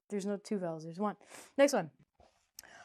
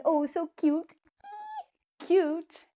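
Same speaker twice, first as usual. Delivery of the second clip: higher, louder gushing cute; cooing; 8 semitones higher, 5 dB louder, much slower than usual. Acted. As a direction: gush over something adorable. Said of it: "cooing at cute".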